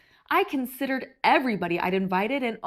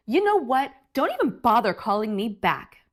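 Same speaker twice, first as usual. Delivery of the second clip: grumpy brush-off; 4 dB louder than usual. Acted. Grumpy grape hangs up.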